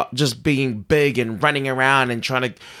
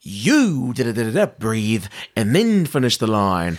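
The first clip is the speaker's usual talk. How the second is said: paced delivery; 3 semitones lower than usual. Shown as a demonstration. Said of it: "instead of".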